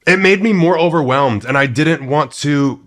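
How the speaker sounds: talking while chewing gum; words round a wad of gum. Real, not acted. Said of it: "oh my God, I have gum in my mouth".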